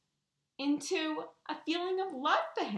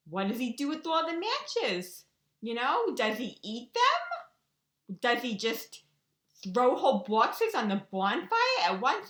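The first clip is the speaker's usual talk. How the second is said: louder, sarcastic blaming questions, slowing on "does he eat them"; mock indignant; 4 dB louder than usual. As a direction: needle him with mock outrage. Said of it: "I'm getting all mad at Geranium".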